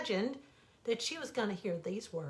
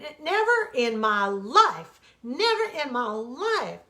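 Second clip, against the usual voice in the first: indignant; 3 semitones higher, 8 dB louder than usual. Acted. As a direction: dig in, refusing. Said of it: "he exploded".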